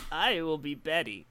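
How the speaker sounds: put-on slow, strained old lady voice; old woman voice. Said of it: "I get to do an old woman voice".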